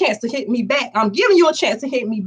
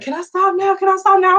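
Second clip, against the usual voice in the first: mock tearful plea; 8 semitones higher than usual. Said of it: "I'm crying more than her".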